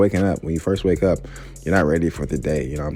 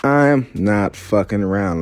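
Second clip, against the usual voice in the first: tough guy; 2 semitones higher, 5 dB louder, slower than usual. Pretend. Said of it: "that face that says".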